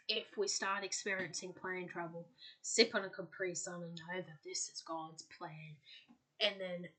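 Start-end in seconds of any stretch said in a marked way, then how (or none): 0.1-5.8 lightly imitated southern accent. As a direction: quote it with a hint of southern accent. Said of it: "she goes in this, like, southern accent".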